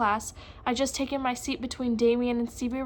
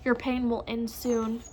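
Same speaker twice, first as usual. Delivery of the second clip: soothing. Acted. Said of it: "Professor P soothed".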